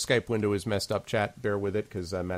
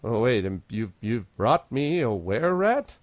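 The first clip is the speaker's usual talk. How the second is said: lightly voiced gnome priest taken aback; mildly shocked elderly gnome; incredulous old gnome; 4 dB louder than usual. Gnome priest shocked by their burden.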